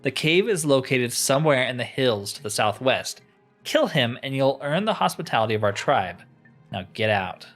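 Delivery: lightly acted haughty quest-giver; deliberate, declaimed game dialogue, dropping to a dismissal; a touch of stern authority laying down terms; imperious tribal leader. Voices leader giving a quest.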